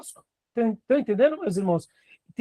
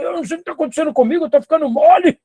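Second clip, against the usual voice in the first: bewildered tough guy; 7 semitones higher, 4 dB louder, faster than usual. Retold or imitated. Tough man surprised by his emotion.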